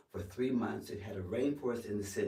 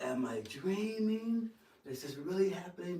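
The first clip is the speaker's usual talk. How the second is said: amazed disbelief; 9 semitones higher than usual. Retold or imitated. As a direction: stretch it out, pitched up in retold wonder. Retold disbelief at the applause.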